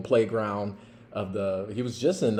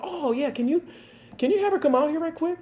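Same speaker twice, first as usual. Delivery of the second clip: knowing officer; faster than usual. Retold or imitated. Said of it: "I was like".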